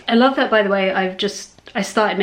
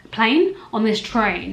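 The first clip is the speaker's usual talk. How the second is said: surprised self-correction; 4 dB louder, slower than usual. Real, not acted. To the viewers, noticing her own slip, a quick puzzled rise. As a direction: catch the slip with "Plane?".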